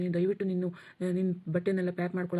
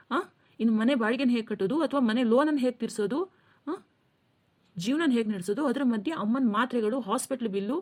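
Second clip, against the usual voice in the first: heated complaint, higher pitched; angry; 4 semitones higher than usual. Acted. Stressed husband vents to his wife about bills, heated and higher. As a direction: vent the pressure of every bill. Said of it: "ಈ ರೀತಿ ಕೋಪ ಮಾಡ್ಕೋತಾ ಇದ್ದೀರಾ".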